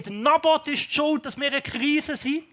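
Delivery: two shady men yelling blame at the crowd; retold shouting. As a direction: shout the accusation like a hired agitator. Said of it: "nachher schreien".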